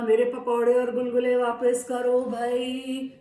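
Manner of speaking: monkey reclaiming his food; loud demand. Acted. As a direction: demand it back.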